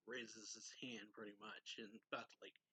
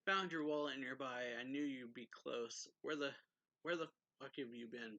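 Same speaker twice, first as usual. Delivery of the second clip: retold yelling; 2 semitones higher, 5 dB louder than usual. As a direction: call out like an angry man who has found her. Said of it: "a guy comes up the stairs yelling".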